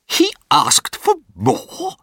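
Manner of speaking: slow, very high, aghast question; horrified. A narrator's reading. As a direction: squeal it slowly in sheer horror. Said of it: "asked in horror".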